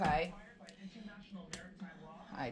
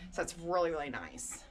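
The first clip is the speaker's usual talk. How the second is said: breathless after climbing stairs; winded, catching breath. Real, not acted. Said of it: "Sorry if I'm a little out of breath".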